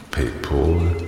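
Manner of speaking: PayPal as "pay-pole", with an o; trying a pronunciation. Acted. Officer unsure how it is pronounced, PayPal as "pay-pohl". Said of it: "wie man es richtig ausspricht".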